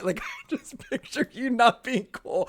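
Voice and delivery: high, laughing apology. Real, not acted. Teasing her cohost, laughing apology. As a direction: squeal through laughter.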